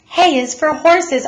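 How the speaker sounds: father correcting. A narrator's reading. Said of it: "Mister Lambchop said".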